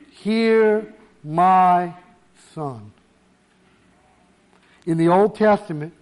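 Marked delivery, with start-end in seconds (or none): 0.1-2.9 drawn-out, solemn command, dropping at the end; voice of God. Acted. Preacher repeating God's command to the disciples, slow voice of God. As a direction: stretch each word as God's weighty order. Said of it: "in a booming voice".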